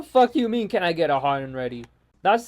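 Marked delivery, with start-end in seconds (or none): 0.7-1.8 quick, lower-pitched mocking echo; mocking repeat. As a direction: parrot the order back in annoyance, fast and low. Throwing the customer's order back.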